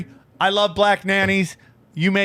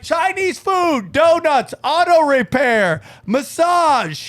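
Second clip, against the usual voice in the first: higher-pitched, called-out list; comic list; 5 semitones higher, slower than usual. Acted. Comic listing an Asian store's businesses, called out one by one. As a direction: announce each business like a separate shop sign.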